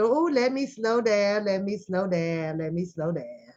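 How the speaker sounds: imitating Booker creeping past police; mock Booker muttering. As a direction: ease off like braking to a crawl. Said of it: "That's Booker".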